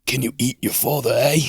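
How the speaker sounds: a light put-on Canadian accent, hammed up; mock Canadian accent. Friend mocking polite Canadians, in a light put-on Canadian accent. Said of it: "I don't know why I'm making him Australian".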